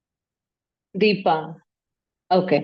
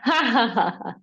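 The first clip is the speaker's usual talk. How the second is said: demo laugh. Shown as a demonstration. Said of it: "And then start laughing".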